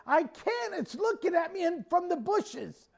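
high, helpless wail over the phone; imitated panic. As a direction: play a frightened woman pleading that she can't. Panicked sister-in-law on phone.

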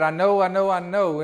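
light echo of his daughter's rushed I know; imitating his daughter. Pastor imitating his daughter on the phone, lightly voiced. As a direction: repeat it like his daughter sure in her heart. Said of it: "And that's how she said it".

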